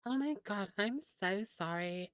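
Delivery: playful posh politeness; mock posh. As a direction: apologize in an exaggerated posh accent. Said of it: "a little bit more of a posh way".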